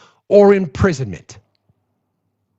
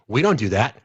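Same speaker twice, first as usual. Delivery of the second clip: mocking the secretary; 8 semitones lower, 4 dB quieter than usual. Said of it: "DHS secretary ... saying".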